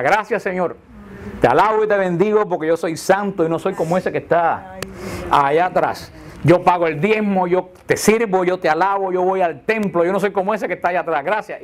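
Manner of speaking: a hint of a self-satisfied man praying; lightly voiced proud worshipper boasting to God; smug Pharisee. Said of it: "que decía". (un leve tono de fariseo engreído)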